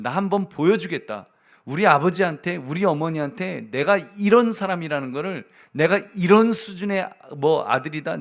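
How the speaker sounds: defiant vow. Retold or imitated. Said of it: "이를 악물고 삽니다".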